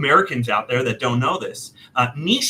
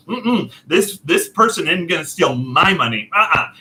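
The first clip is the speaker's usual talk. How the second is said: defiant refusal; 3 semitones higher than usual. Retold or imitated. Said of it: "And I'm like".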